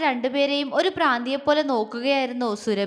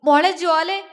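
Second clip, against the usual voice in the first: loud tearful call; crying out; 5 semitones higher, 5 dB louder than usual. A narrator's reading. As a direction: call her name through tears. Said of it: "പൊട്ടിക്കരഞ്ഞുകൊണ്ട് അവളെ വിളിച്ചു". (കരഞ്ഞുകൊണ്ടുള്ള വിളി)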